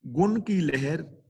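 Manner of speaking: ਗੁਣ ਕੀ ਲਹਿਰ slowly, then a short stop; short pause after. Shown as a demonstration. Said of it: "ਇੱਥੇ ਥੋੜ੍ਹਾ ਜਿਹਾ ਰੁਕਾਂਗੇ".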